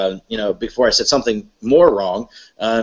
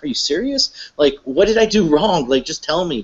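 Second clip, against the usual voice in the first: higher, incredulous pleading; a higher retold protest of disbelief; disbelieving plea; 5 semitones higher than usual. Pleading with the silent agents, higher and incredulous.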